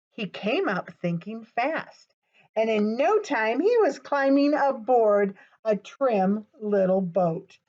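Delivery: put-on gentle storybook reading for children; story narration. The reader reads Harold to young kids, storybook voice. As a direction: read it like bedtime for little listeners. Reads a picture book aloud.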